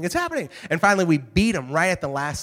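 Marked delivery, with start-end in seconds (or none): 0.0-0.5 much higher, thrilled announcer cry; announcer at the peak. Retold or imitated. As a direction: it breaks at the top. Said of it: "the announcer goes".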